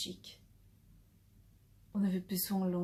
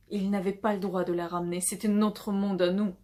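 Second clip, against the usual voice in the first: louder, faster burst of jealous protest; indignant, raised voice; possessive outburst; 7 dB louder than usual. Acted. Jealous outburst in a dramatic confession.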